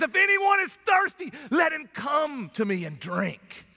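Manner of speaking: a preacher bellowing Jesus' call; shouting at the top of his lungs. Retold or imitated. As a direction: cry it out over a noisy crowd. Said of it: "At the top of his lungs".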